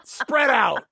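said through laughter; laughing. Real, not acted. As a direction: laugh while repeating. Laughing repeat of own yell.

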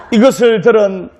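ordinary talk, nothing marked

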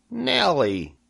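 high, falling pig voice; Wilbur suggesting. A narrator's reading. Wilbur offers the spider a name, high voice. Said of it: "he suggested".

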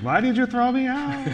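high ghostly wail from the jar; haunting sourdough ghost. Pretend. Host voicing the thrown-out starter, high ghostly wail. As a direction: play the wronged sourdough haunting her. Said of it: "the sourdough comes back to haunt you".

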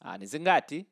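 "ni zingati" run together in one quick burst; quick, joined-up "ni zingati" with no gaps; said quickly. Shown as a demonstration. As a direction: rattle off "ni zingati" like a fast native speaker. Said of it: "So just say it quickly".

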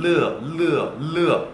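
르 gliding from "eu" into "eo"; 르 as a two-vowel "leu-eo"; "eu" sound included. Shown as a demonstration. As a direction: put an audible "eu" inside 르. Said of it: "으 이 발음이 좀 들어가야 됩니다".

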